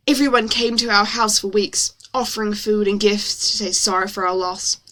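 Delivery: story read in an exaggerated American accent. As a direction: narrate with put-on American vowels. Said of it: "it's exaggerated for effect".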